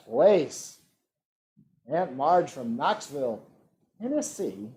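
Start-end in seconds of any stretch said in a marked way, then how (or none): 1.9-4.7 a hint of a put-on Tennessee twang; light mock Tennessee accent. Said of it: "That was my Tennessee accent".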